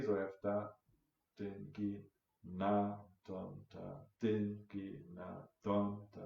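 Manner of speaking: five syllables with every third one pushed; grouping accents across the five; accented count in threes. Shown as a demonstration. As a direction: chant da din gi na don, hitting each third. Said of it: "if I group it in three".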